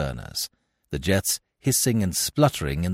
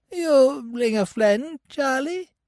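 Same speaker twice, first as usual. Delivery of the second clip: thin, piping, very high squeak. Reading a story, an old man speaks for the first time, thin squeaky piping voice. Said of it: "he squeaked in a thin, piping voice".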